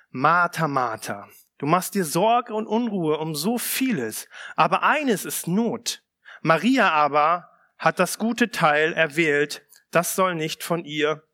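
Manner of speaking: measured, solemn Bible reading; unhurried reading from the pulpit; scripture reading. Acted. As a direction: read the Gospel to the congregation. Reads Luke 10 aloud.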